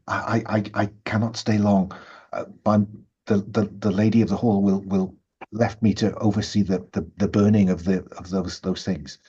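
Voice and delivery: lightly voiced nervous, secretive woman. Pious woman confides she cannot stay long, mildly nervous stammer. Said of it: "looks nervously about and says".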